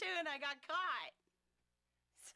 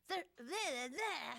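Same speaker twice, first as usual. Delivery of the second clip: Captain Kirk; much slower than usual. Retold or imitated. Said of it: "I was doing Captain Kirk".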